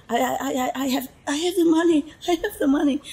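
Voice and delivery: high, rushed stammer imitating a desperate plea; stuttering mock plea, high and hurried; begging. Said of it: "Like begging for it".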